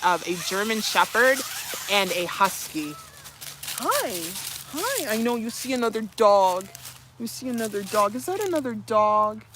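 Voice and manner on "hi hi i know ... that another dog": puppy greeting. Real, not acted. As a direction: chirp at the pup excitedly. Greeting puppy who sees dog.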